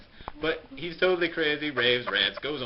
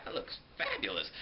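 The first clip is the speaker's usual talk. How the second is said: vain king; 2 semitones lower, 6 dB quieter than usual. Retold or imitated. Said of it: "and he's like".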